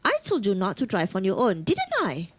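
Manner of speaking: a touch of anger in a demo telling-off; some anger. Shown as a demonstration. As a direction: scold a little, pushing up on "didn't I". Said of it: "so it shows anger, some anger there".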